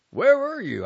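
high, loud reproach; reproachful. A narrator's reading. Husband reproaching his wife, loud high. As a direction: scold her for being gone. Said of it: "he said reproachfully".

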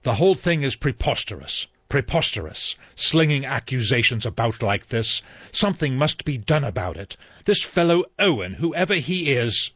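put-on an old general's huffing protest; indignant exclamation. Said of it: "He exclaimed".

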